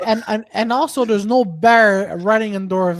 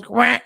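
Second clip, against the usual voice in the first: imitated duck quack. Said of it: "just goes".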